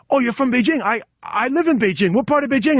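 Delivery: mock-enthusiastic small talk; acted eager delight. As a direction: retell it like a thrilled newcomer making friends. Acts out his delighted reply in story.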